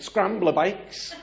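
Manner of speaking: slow, high, loud made-up answer; retold bluff, stretched out loudly. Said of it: "And lying, I went".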